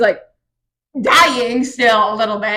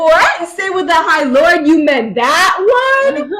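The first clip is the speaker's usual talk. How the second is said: raised, slow incredulous "What?"; mock disbelief; 5 semitones higher, 3 dB louder, slower than usual. Feyre repeating the Suriel's words, stunned and incredulous. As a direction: act stunned by what she heard.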